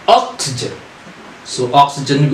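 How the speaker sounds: Oxygen with the weight on OX, the rest unstressed; first syllable stressed. Shown as a demonstration. Teacher showing students where Oxygen takes its stress. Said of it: "we stress on the first oxygen".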